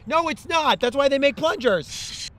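loud, high, slow exasperated retort; fed-up protest, hitting every word; angry outburst. Acted. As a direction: contradict at full volume. Exasperated new fairy argues back.

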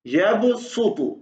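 यब सुतु very slow with a heavy su. Shown as a demonstration. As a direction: spell out यब सुतु slowly. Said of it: "स्वाद पे सू". (धीरे, मोटा सु)

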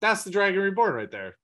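like spotting a celebrity across the yard; eager excitement. Retold or imitated. Amyrlin spotting Rand on the wall, excited. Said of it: "She just, like".

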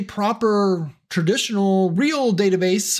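drawn-out words in audible air quotes; air-quoted emphasis. Real, not acted. Describing paid databases to viewers, in air quotes. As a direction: set each word apart, as if quoting it. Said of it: "I'm putting air quotes around all this".

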